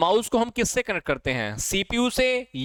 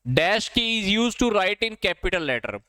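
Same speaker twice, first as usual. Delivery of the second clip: slow dictation; 2 semitones higher, much slower than usual. Shown as a demonstration. Reading a quiz question aloud.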